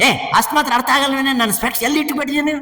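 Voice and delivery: high, rushed, mildly cross husband; mock irritation. Husband scolding his wife over lost spectacles, mock irritation. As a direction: act out a fussing husband, fast and high. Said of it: "ಕೋಪ, ತಾಪ, ಮೇಲ್ಗಡೆ ಏನ್, ಏನ್ ಆರ್ಭಾಟ".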